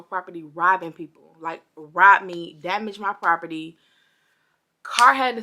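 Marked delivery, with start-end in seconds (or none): 1.4-3.8 indignant. Real, not acted. Outraged at robbers.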